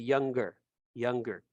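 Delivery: "younger" with a hard G, falling; "younger" demonstrated with its G audible; pronounced G. Shown as a demonstration. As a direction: sound the G in "younger", as young-ger. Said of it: "esta G sí se pronuncia".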